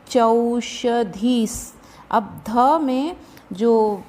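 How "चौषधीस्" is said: चौषधीस् drawn out slowly, ending on a clear s; visarga as s. Shown as a demonstration. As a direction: stretch चौषधीस् and close it with a hissed स्. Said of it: "उसके कारण ये चौषधीस् बोलेंगे".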